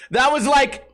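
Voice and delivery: ordinary talk, nothing marked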